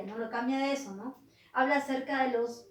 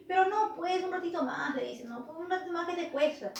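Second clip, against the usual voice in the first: acted bargaining, raised pitch; wheedling plea; 5 semitones higher than usual. Don Dimas bargaining with the demon for time, wheedling. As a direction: coax for a small favour.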